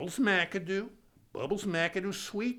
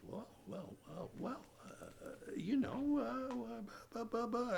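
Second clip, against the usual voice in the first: flustered stammer; 7 semitones higher, 11 dB quieter than usual. Retold or imitated. Stammering at a loss for words.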